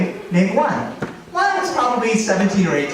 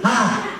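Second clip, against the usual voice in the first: jump-scare yell; 5 semitones higher than usual. Shown as a demonstration. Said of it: "now watch this".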